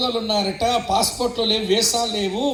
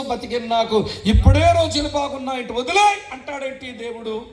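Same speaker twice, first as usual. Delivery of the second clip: raised, higher protesting outburst; exasperated complaint; 3 semitones higher than usual. Retold or imitated. Complaining to God about leaving.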